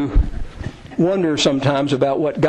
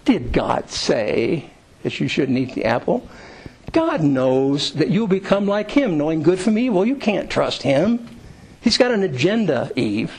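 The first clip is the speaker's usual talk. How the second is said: slow, lightly voiced tempter; understated, coaxing persuasion; Satan. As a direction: draw the words out to plant suspicion. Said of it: "What did he say to Eve?".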